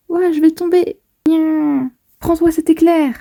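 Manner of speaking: lively voiced manga dialogue; voicing characters in a fight. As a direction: play the scared heroine fighting back.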